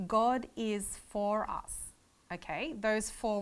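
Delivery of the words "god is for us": slow and deliberate. Shown as a demonstration. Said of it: "if we take that phrase".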